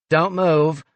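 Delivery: commanding bark; barked order. Acted. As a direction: snap the command at her associate. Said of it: "Fran barked".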